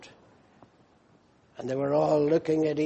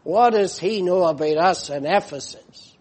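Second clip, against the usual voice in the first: rising, higher and more anxious as the complaint builds; doubting church members; 5 semitones higher, 7 dB louder than usual. Retold or imitated. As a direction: voice the struggling church's worried doubts. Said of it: "they don't say".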